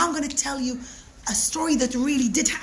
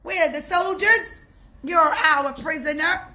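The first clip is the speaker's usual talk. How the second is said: much higher, loud jeering laugh; mocking laughter; 7 semitones higher, 5 dB louder than usual. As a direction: sneer and cackle at the prisoner. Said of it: "they started to laugh".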